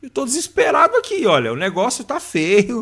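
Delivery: pleading like a man at the end of his rope; desperate prayer. Retold or imitated. Man retelling a raw prayer to God, pleading urgently. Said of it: "aquela coisa assim".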